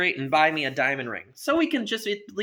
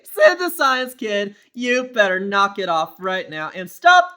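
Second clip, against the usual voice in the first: louder, higher firm dad; stern warning; 5 semitones higher, 8 dB louder than usual. Acted.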